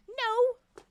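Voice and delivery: high, loud mock cry of no; mock outrage. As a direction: cry out in playful protest.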